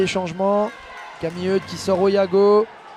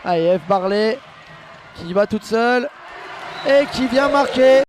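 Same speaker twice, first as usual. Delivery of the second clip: excited sports commentary. Real, not acted. Play-by-play to a goal.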